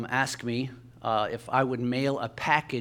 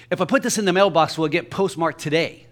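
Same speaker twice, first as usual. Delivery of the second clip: quick, slightly raised imitation of a customer; interrupting customer; 3 semitones higher, 4 dB louder, faster than usual. Man butting in at the post office counter, mock interrupting customer. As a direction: cut in briskly with the question.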